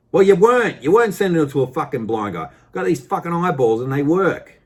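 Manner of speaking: loud, high-pitched outburst; indignant retort. Acted. Customer telling off the supplier who thought him blind, indignant. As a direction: fire back, hammering the first words.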